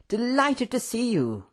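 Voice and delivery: high, gushing delight; excited. A narrator's reading. Professor greeting Mister Tando, excited. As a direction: greet an old friend with soaring pitch. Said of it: "he cried excitedly".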